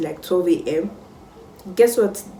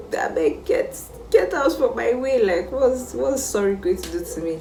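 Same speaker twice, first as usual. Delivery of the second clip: higher-pitched, exasperated brush-off; irritated dismissal; 6 semitones higher than usual. Retold or imitated. Senior rejecting schoolmates' apologies, irritated and dismissive. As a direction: wave them away, fed up. Acting her angry reply to apologies.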